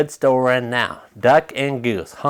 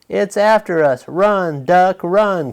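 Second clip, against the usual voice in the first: higher panicked cry; cried out; 5 semitones higher than usual. A narrator's reading. Goose to Duck, fleeing, a frightened cry. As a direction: urge Duck to flee in fear. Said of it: "cried Goose".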